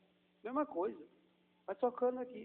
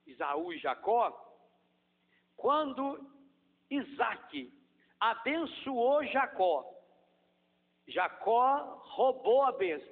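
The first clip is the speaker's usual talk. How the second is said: louder, higher preaching voice; fervent preaching; 5 semitones higher, 5 dB louder than usual. Acted. Pastor preaching to the congregation about Jacob's blessing, fervent. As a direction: preach it with fire.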